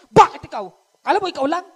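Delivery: high, loud mocking retort; mock talking back. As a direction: sass back like a rude child. Scolding a parent back, mimicked. (pabalang na pagsagot)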